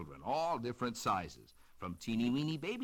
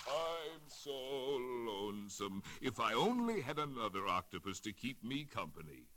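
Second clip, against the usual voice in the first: lonesome sighing. Acted. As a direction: sigh it out like a lonely octopus. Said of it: "sighing to himself".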